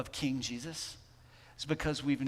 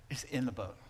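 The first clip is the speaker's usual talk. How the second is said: whisper; 2 semitones lower, 5 dB quieter than usual. Real, not acted. Preacher's comforting climax.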